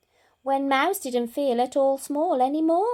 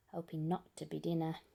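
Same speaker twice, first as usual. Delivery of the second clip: nervous aside; 7 semitones lower, 11 dB quieter, faster than usual. A narrator's reading.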